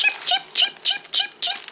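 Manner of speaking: very high, short cheeps; chirping sparrows. A narrator's reading. Narrator voices sparrows near Owl, tiny high chirping. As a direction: chirp evenly in a tiny bird voice. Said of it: "The sparrows chirped".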